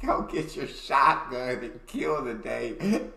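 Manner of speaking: slow mock American drawl; lightly hammed-up American drawl; imitated American drawl. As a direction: stretch it out, mimicking the American accent. Mimicking the clip just played.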